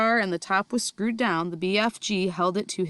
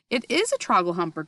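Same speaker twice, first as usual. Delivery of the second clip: exasperated; 3 dB louder than usual. Acted. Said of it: "cried the exasperated B F G".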